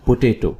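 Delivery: "पोटैटो" as puh-TAY-to; correct potato pronunciation. Shown as a demonstration. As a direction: say "पोटैटो" with a long AY in the middle. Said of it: "इसकी जो सही pronunciation है".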